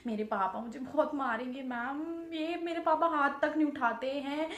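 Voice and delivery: softly begging, hands folded in apology; retold pleading. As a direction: plead quietly with the teacher, a little desperate. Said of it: "बिल्कुल मैंने हाथ वाथ सब जोड़ लिए".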